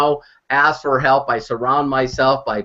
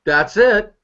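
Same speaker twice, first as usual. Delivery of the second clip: excited realization; 6 semitones higher than usual. Retold or imitated. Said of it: "we all looked at each other and went".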